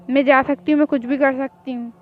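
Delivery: loud defiant retort; defiant shout. Acted. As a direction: fling it back at him. Defiant retort while arguing. (ज़िद में ज़ोर से जवाब)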